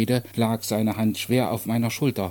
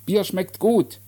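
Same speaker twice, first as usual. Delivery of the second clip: raised, high-pitched call; calling back; 8 semitones higher, 3 dB louder, slower than usual. Acted. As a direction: call back to someone across the square. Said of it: "rief ich zurück". (zurückrufend, mit hoher Stimme)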